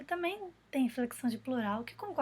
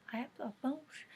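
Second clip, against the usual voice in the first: mock doubtful question; 6 dB quieter than usual. Shown as a demonstration. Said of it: "muita gente que fala pãos".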